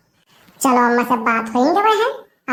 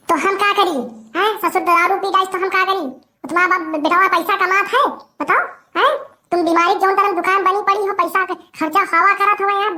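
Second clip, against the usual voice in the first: higher-pitched complaining rant; angry rant; 3 semitones higher than usual. Acted. Daughter-in-law scolding the old mother, angry rant. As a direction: let out all her grievances.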